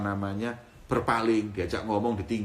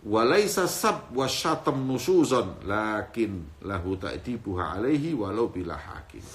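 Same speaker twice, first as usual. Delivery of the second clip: Arabic text recitation; slower than usual. Acted.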